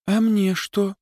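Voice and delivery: playfully demanding; eager. Acted. Girl asks for gift.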